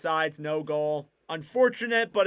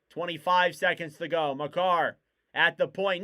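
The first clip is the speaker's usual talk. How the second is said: brisk hockey call, level and steady; live hockey commentary; play-by-play. Acted. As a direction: keep the play moving like a broadcaster.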